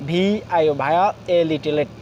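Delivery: ভায়োলেট spelled out as two sounded chunks; broken into syllables. Shown as a demonstration. Teacher breaking down the colour word for learners, syllable by syllable. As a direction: spell each part, then sound it. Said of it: "আমরা ভেঙে ভেঙে".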